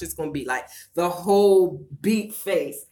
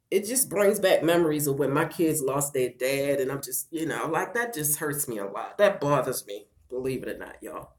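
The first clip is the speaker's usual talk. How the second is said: real hurt, voice dropping away; tearful; 2 semitones lower than usual. Real, not acted. Widow tells viewers the memory hurts, tearful and subdued. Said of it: "up on this piece crying".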